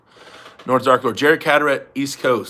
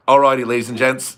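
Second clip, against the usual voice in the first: tentative mock Aussie video opener; lightly imitated Australian intro; Ryan Bowen; 4 dB louder than usual. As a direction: test out a presenter's catchphrase. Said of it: "what does he open up all videos saying".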